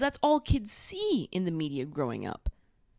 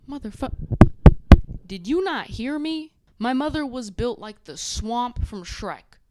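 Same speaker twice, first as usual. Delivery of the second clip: mock exasperated outburst; 5 semitones higher, 7 dB louder than usual. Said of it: "And she was like".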